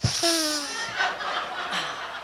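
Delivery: long imitated sniff of nose spray; nose spray hit. Wife mimics husband taking nose spray in the airport, long sniff. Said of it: "taking a hit, like".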